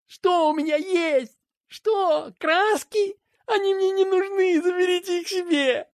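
put-on a wounded kid pushing the gift away; boy snapping back at his mother, high and sulky; hurt boy. A narrator's reading.

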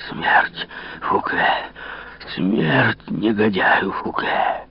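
медленно, хрипло, на последнем дыхании; прорычи угрозу из последних сил; обессиленное рычание. Acted. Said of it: "он только рычал". (измученный король рычит на Фуке, медленно)

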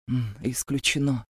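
low, soft hoarse refusal; a hint of a hoarse growl; hoarse rasp. A narrator's reading. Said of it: "прохрипел он".

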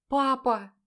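high, loud cry to father; protesting daughter. A narrator's reading.

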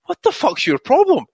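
high, loud mock outburst; mock yell. Retelling his angry reply to Bunce, high mock yell. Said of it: "I'm like".

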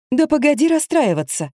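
a hint of a chattering vet; rattling doctor. A narrator's reading. Vet rattles on to the narrator, lightly voiced. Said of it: "неслась дальше докторица".

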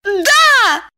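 high, insistent yes; exasperated woman. A narrator's reading. Diana snaps at Eliseev, high and exasperated. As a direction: snap it high and impatient.

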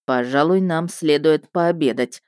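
understated calm inspector; lightly voiced Murdock. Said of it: "заметил он".

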